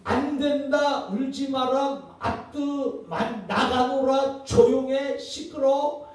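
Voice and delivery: slow, sing-song list of prohibitions; mocking mother's litany. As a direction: drag out every no like a broken record. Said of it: "이 엄마는 처음부터".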